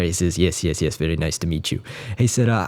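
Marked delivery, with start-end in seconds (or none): 0.4-1.8 low, lightly voiced old composer; Stravinsky. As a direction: imitate an old man politely brushing off a fan. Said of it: "old composer and saying".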